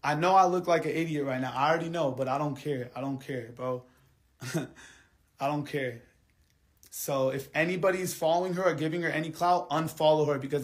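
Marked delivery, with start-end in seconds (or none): 2.1-6.0 trails off softer and softer, ending slow with a laugh; dropping to a hurt mumble; fading to quiet. Real, not acted. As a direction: let it sink away, half-laughing. Hurt rant, voice sinking away.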